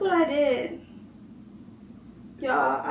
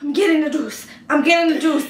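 mock determined; 6 dB louder than usual. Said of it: "I would've been like".

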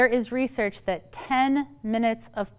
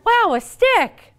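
slow, much higher, wide-eyed wonder at a stick; mock amazement; 10 semitones higher, 7 dB louder, slower than usual. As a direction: gasp like a stick is a treasure. Mock wonder of unplugged childhood.

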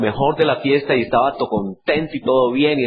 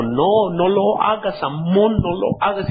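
pleading sister; 4 semitones higher than usual. Retold or imitated. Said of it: "ella le dijo".

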